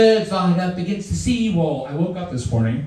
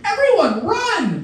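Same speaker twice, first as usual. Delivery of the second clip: high urgent call to run; shouted alarm; 14 semitones higher, 4 dB louder, slower than usual. Pretend. Warning everyone to flee, a loud shout. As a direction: yell it out to the whole crowd.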